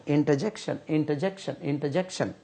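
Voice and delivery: इंटरजेक्शन repeated softly with a clear -jek-; careful pronunciation. Shown as a demonstration. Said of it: "इसका तलफ़ुज़ होता है इंटरजेक्शन". (इंटरजेक्शन का सही तलफ़ुज़)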